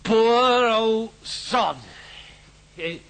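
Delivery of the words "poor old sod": drawn-out lament. Acted. Drunk father laments son.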